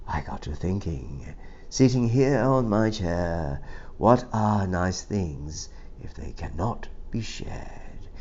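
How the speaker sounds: a lonely goat's apology, read soft and low; softly voiced goat letter. The lonely goat writes to the people below, soft and sorry.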